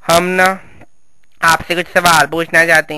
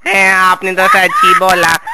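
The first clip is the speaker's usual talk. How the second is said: loud, slow exaggerated agreement; mock agreement; 5 dB louder, slower than usual. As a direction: ham it up for the crowd.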